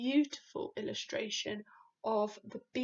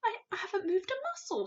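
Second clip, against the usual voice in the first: put-on higher, quick little-girl voice; a nervous child protesting fast; girl's voice; 9 semitones higher, faster than usual. A narrator's reading. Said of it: "Sophie said".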